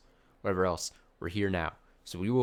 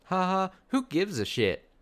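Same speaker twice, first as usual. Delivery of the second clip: loud scoff; 11 semitones higher, 5 dB louder than usual. Real, not acted. Loud outburst.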